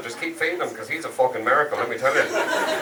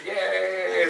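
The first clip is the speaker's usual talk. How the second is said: mock Irish "yay", held high; Irish cheer; 4 semitones higher than usual. Comic mimicking the crowd's Irish cheer. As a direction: imitate a small Irish cheer. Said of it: "It was an Irish".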